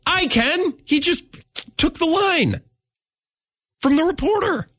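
lecturing in a put-on high voice; odd voice. Real, not acted. Host mocks a reporter's question in a high voice. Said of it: "I don't know why I'm talking like this".

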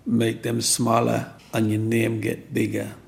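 put-on slow Jamaican-accented quote of mum; measured advice with a Jamaican lilt. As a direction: imitate mum's Jamaican accent, taking it slowly. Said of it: "in a Jamaican accent".

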